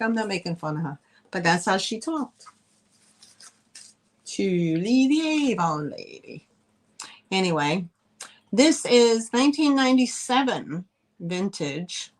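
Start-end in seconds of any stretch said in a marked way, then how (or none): 4.2-6.5 imitating Norwegian Avon lady.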